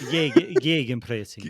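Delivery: mock German accent; hammy German pronunciation. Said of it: "is that your German accent".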